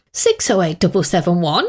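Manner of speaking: lightly mimicked telephone manner; dad's telephone voice. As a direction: imitate Dad formally answering the phone. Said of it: "like a different person answering it".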